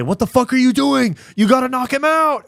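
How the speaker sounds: high, loud mock coach yell. Coach yelling at his fighter between rounds, loud mock yell. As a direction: bark it like a fed-up corner man. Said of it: "heard his coaches say".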